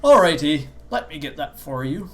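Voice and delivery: put-on Canadian accent. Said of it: "What a good Canadian accent".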